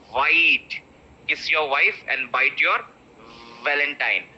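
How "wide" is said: Wide, said with the mouth wide open; open mouth on the vowel. Shown as a demonstration.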